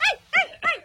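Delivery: high sharp calls to chase monkeys; high-pitched shoo. Real, not acted. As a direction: call out to scare the monkeys away. Shooing monkeys off the mango tree.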